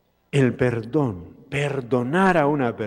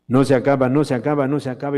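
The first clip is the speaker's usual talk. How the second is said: louder no se acaba, swelling with joy; rising excitement; 2 semitones higher, 5 dB louder, much faster than usual. Acted. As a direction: burst out no se acaba in delight. Marvel at endless bread. (con entusiasmo creciente)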